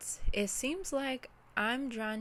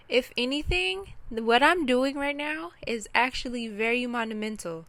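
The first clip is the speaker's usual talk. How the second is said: fired up; 3 semitones higher, 6 dB louder than usual. Real, not acted. Sudden burst of resolve.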